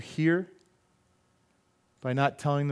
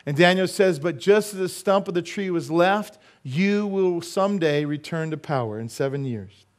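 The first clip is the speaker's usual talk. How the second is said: raised, emphatic preaching voice; 5 semitones higher, 5 dB louder than usual. Acted. Preacher quoting Daniel to his congregation, raised preaching. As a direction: preach the prophecy out with force.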